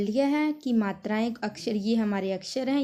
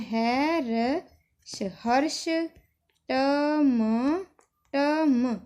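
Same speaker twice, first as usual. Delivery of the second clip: slow spelling; 2 semitones higher, much slower than usual. Shown as a demonstration. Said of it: "अगर हमने इसको बड़ा भी करके लिखना है".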